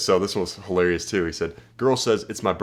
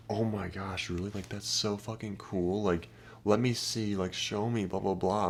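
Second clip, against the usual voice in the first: softer, slow, starstruck fan; mock gushing guy; 6 dB quieter than usual. Typical guy fawning over a girl, mock gushing. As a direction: gush over her like an eager fan. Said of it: "So what are most guys like?".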